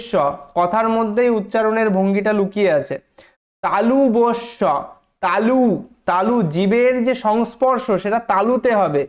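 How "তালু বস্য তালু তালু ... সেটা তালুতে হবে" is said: slow, deliberate teaching of তালু; drawing out তালু for the class; careful demo of palatal sh. Shown as a demonstration. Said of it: "উচ্চারণ করুন". (ধীরে, যত্ন করে উচ্চারণ)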